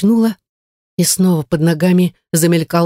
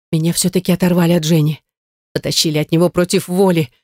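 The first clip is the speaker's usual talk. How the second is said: ordinary delivery, nothing marked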